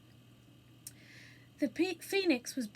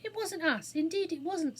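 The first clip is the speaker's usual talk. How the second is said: higher-pitched, pleading denial; earnest protest; 6 semitones higher than usual. A narrator's reading. Anthea defending the children to the attendant, earnest. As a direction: insist on innocence in earnest. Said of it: "said Anthea earnestly".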